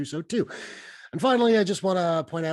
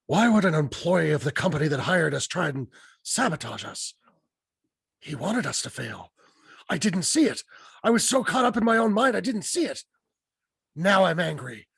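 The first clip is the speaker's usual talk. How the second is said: Liam Neeson impression. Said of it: "I'm gonna do my Liam Neeson impression".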